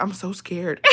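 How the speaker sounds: small, soft mock-scared voice, near laughter; playing the victim. Playing victim to her boyfriend, mock scared. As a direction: feign fear softly, about to crack up. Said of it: "I played the victim so fucking bad".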